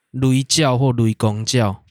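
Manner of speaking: Taiwanese. Shown as a demonstration. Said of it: "台语的话".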